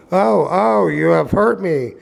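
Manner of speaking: high, crying little voice; doleful little voice. A narrator's reading. Hurt log crying to the carpenter, high and doleful. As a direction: whimper it out in pain, high. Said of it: "cried the same little voice dolefully".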